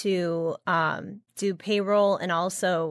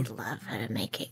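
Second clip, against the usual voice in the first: low, soft Long Island and Australian voice; a lightly done Elsie, much lower and softer; mimicking a coworker, dropped low and soft; Elsie impression; 11 semitones lower, 6 dB quieter than usual. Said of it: "is that your Elsie impression".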